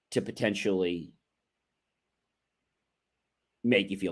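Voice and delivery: calm and understanding. Shown as a demonstration. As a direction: talk them down gently. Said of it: "you stay calm".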